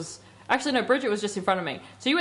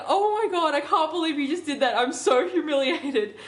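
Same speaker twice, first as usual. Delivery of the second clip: higher-pitched mock outrage, little extra volume; retold angry yelling; 5 semitones higher than usual. Dreamer imitating friend scolding her in the dream, mock outrage. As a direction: act out a humiliated friend's protest. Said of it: "then you started yelling at me".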